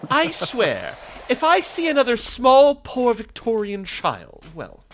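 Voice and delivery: a lightly voiced fake Astarion. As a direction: tease like a wounded aristocratic vampire. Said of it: "do my fake Astarion".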